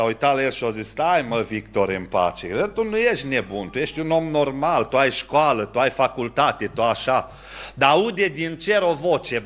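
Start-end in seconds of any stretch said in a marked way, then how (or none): 0.9-7.3 lower, gentle soothing voice; reassuring calm. Acted. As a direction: settle him down like a kind elder. Angel calms despairing man. (glas liniștitor, mai jos și blând)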